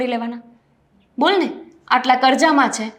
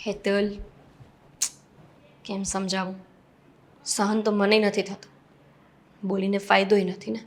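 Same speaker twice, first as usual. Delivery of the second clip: resigned sadness; 5 semitones lower, 6 dB quieter than usual. Acted. Elder sister-in-law admitting she suffers too, soft and resigned. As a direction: let the hopelessness sink the voice.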